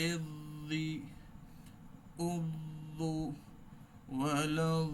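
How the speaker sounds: এদি উদু with the দ kept running; flowing dad drill. Shown as a demonstration. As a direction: do not block the দ. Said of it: "সাউন্ডটা কিন্তু কি রয়েছে? চলমান রয়েছে".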